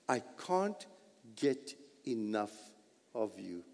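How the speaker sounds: hushed and intimate; soft, tender read. Acted. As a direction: say it softly, like a confession. Quiet reading of psalm line.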